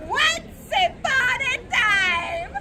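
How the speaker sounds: slow, drawn-out fairytale opener; grand story opening. Pretend. Sisters beginning a story for the crowd, grandly drawn out. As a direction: stretch every word like a grand opening.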